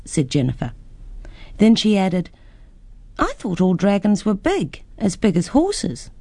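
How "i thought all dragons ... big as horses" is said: put-on a slightly higher girlish voice; lightly voiced curious girl; little girl. Girl talks to dragon.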